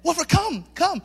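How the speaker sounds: high-pitched coaxing call; trying to sweet-talk a dog; nice-guy coaxing. Retold or imitated. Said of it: "supposed to be a nice guy".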